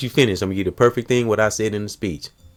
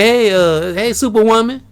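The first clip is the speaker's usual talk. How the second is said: higher-pitched, cheery call-out; playful encouraging greeting; 11 semitones higher, 3 dB louder than usual. Retold or imitated. Man hailing her to encourage her, playful and high. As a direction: hail her playfully like a hero.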